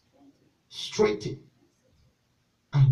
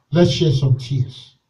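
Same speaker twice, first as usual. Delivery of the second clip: tender pleading preacher. Real, not acted. Pastor gently urging the church to weep. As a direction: draw them gently toward prayer.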